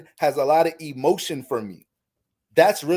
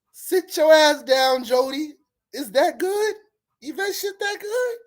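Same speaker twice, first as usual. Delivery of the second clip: mock scolding; 7 semitones higher than usual. Woman mocking Jody on the phone, high mocking rant. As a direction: tear him down, hammed-up.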